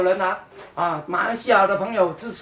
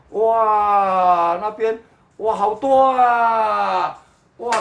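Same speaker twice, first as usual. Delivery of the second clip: mock amazement; 4 dB louder, much slower than usual. Mock amazement at many deaths.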